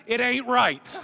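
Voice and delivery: a light Kentucky twang on it ain't right; Kentucky accent. Shown as a demonstration. Governor to the rally crowd, a light Kentucky accent. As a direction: lean into the Kentucky accent, folksy. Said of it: "in my Kentucky accent".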